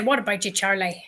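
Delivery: demonstrating a Northern Irish greeting; easy Northern Irish hello; Northern Irish accent. Shown as a demonstration. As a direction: model the Northern Irish hello for someone to copy. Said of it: "the good old Northern Irish hello".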